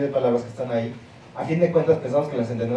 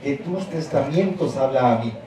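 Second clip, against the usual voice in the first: Ladino reading. Shown as a demonstration. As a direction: read the old text out deliberately. Reads Ladino text for pronunciation.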